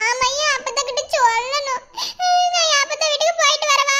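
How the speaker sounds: asking through tears; a sob breaking into the words; tearful. Acted. Pregnant wife asks to go tell grandmother, tearful. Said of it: "இந்த மாதிரி சமயத்துல அழுகலையும் கூடாது".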